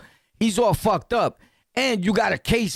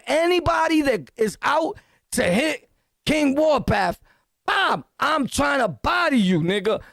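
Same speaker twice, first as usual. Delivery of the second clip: higher, shouting warning; shouted threat; 6 semitones higher than usual. Real, not acted. Warning his viewers' challengers, a shouted threat. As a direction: yell it as a dare. Threatening anyone who hits him.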